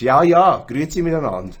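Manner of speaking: Grüezi miteinander said in Swiss German; a casual Swiss German hello, Grüezi miteinander; Swiss German greeting. Shown as a demonstration. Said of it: "that was Swiss German, by the way".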